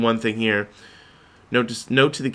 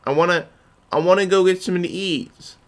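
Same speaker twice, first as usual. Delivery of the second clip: mock eager voice; 7 semitones higher than usual. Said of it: "You're like".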